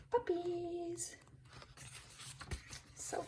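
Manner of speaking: a little excited cry at the cute picture; thrilled high-pitched squeal; high delighted squeal. Real, not acted.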